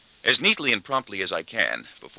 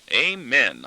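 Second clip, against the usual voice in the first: mildly relieved, higher and louder; relieved conclusion; 4 semitones higher, 5 dB louder than usual. A narrator's reading. Father after everyone agrees not to fight, relieved. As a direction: round it off with relief. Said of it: "I conclude with relief".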